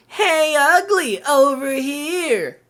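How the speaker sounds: high, dragged-out taunt from a tiny cat; rude talking cat. Retold or imitated. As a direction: sneer it like a cheeky little pet. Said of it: "when I hear my little cat saying".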